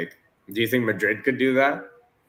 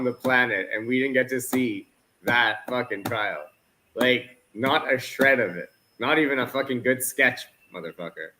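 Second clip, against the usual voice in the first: high, worked-up ranting; angry rant; 5 semitones higher than usual. Real, not acted. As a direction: vent it hard and fast. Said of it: "You're angrier than usual".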